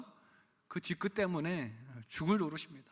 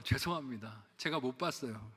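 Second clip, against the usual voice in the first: softer, lower, timid apology; meek apology; 5 semitones lower, 6 dB quieter than usual. Retold or imitated. Church member apologizing to the pastor through the car window, timid. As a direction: shrink back apologetically. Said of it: "우리 성도님께서".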